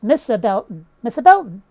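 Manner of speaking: "Mister Belton" as Missa Bel'n; dropped R. Shown as a demonstration. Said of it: "that's another thing".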